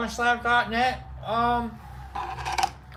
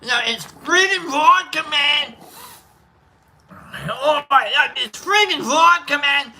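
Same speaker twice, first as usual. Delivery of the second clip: a light put-on Scottish brogue; mock Scottish accent; 4 semitones higher than usual. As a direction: ham up a Scottish drinker. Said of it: "like, Irish, Scottish".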